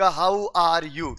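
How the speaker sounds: very slow, drawn-out How are you; drilling the phrase. Retold or imitated. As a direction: stretch each word as if teaching it. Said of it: "आप उनको बोलोगे कि".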